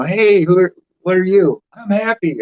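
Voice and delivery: high, loud imitated shout of a question and a reply; a playful imitation of a loud yelled exchange; mock yell. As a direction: call it out like someone yelling across a room. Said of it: "if somebody yelled that".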